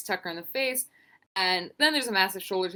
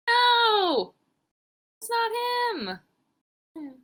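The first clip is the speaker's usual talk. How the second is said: high, loud shouted no; mock outcry; 14 semitones higher, 3 dB louder, much slower than usual. Fan shouting in denial at a replay, loud high yell.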